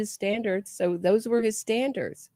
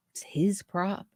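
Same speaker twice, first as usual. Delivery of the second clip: whispering; slower than usual. Real, not acted. Emphatic aside after repeat.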